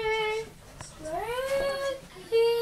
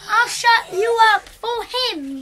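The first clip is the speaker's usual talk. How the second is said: angry scolding; 4 dB louder than usual. Pretend. Grandpa scolding, pretend play.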